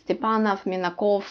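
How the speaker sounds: Stepanov and Minakov ending in a slight F; barely heard F closing each surname; short final F. Shown as a demonstration. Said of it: "it's a short F".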